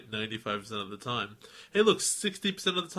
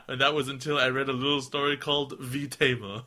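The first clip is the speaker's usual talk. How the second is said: lightly put-on Texan accent; Southern accent. Podcaster reads fan's poem, light Southern accent. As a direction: read verse with a hint of Southern twang. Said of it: "How does Southern go?".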